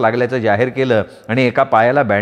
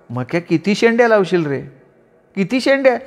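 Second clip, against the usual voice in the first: higher, exasperated wife voice; scolding wife; 6 semitones higher than usual. Acted. Wife Manda scolding her clumsy husband, higher voice.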